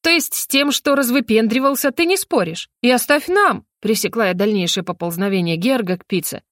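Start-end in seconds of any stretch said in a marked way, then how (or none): 0.0-3.7 needling. Acted. Heroine snaps about pizza.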